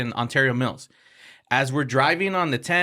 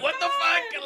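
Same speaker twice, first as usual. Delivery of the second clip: much higher, a laughing cry of "What the fuck?"; shocked laughing yelp; slower than usual. Retold or imitated. Reacting to sounds from couple.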